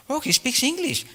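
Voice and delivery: high surprised exclamation. Retold or imitated. Guru surprised the boy speaks English, high surprised exclamation. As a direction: pitch it up in happy surprise.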